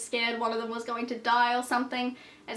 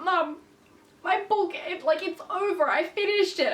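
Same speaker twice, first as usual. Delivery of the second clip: mock wailing; 6 semitones higher than usual. Retelling her own crying.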